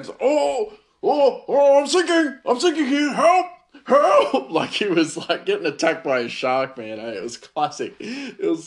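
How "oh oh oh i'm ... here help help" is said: mock panic, high and loud; panic mode. Overwhelmed cook mock-panicking at the fryer, high yelps. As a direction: squeal for help like you're drowning. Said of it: "frantically looking around".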